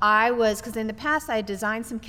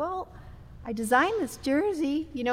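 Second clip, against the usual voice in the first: small, timid, meek, pitched-up voice; 5 semitones higher, 3 dB quieter than usual. Recounting being asked about the jersey, retelling own meek little voice. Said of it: "in this little voice".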